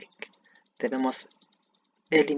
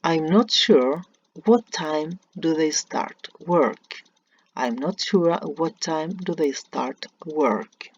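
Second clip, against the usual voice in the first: slow, clearly spaced words; slow model sentence; 4 dB louder, slower than usual. Shown as a demonstration. Teacher reading the faulty example slowly to students. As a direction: read the wrong sentence slowly aloud.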